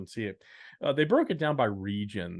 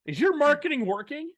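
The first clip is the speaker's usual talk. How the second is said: loud, high-pitched carnival barker hollering; 8 dB louder than usual. Acted. Host amping up the podcast for distributors, carnival barker voice. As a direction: belt it out high like a barker drumming up a crowd. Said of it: "some weird Carnival Barker voice".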